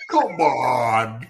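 drawn-out disbelieving "come on"; incredulous protest. Real, not acted. Co-host reacting to a tall gross story, incredulous protest. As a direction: stretch it out, refusing to believe it. Listener reacting to unbelievable sausage detail.

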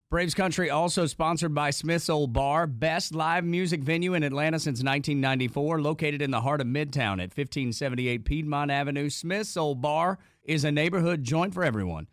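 steady, polished podcast ad read; sponsor ad read. Acted. Host promoting music venue, announcer-style ad read.

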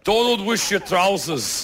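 put-on slow, careful stab at a Scottish accent; imitated Scottish. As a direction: try the Scottish phrase slowly, unsure. Host attempts the Scottish reply.

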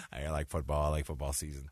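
low, dim mock football fan; dopey jock voice.

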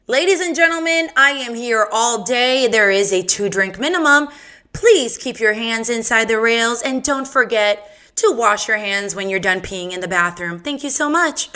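lightly hammed-up host sign-off; a hint of a showman voice; mock announcer. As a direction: play the club emcee closing the show.

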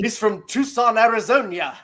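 hammed-up Texan accent with a laugh; mock Texan accent. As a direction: tease a badly faked Texan accent, laughing. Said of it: "trying to do a Texan accent".

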